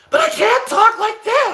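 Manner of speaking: very high, strained falsetto; pussy voice. Shown as a demonstration. Streamer shows the voice they lost, straining very high. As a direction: squeak it out as a failing wimpy voice. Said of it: "I can't do my pussy voice".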